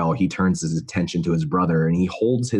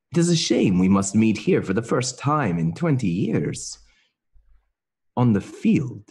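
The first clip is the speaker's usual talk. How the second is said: higher, theatrical in-character voice with swooping pitch; knight addressing estranged brother; 5 semitones higher than usual. Acted. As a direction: answer your brother in lofty, lilting reproach. Player voices knight answering his brother.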